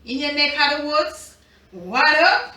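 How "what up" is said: loud, lifted call to the viewers; upbeat shout-out with "up" rising at the end; hype greeting. Real, not acted. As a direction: call it out like a rising hello to the crowd.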